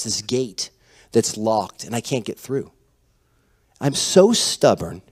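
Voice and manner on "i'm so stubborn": slowed, drawn-out confession of stubbornness; slow admission. Shown as a demonstration. Pastor confessing stubbornness to congregation, slow and rueful. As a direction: let it linger, slow and rueful. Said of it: "Anybody with me?".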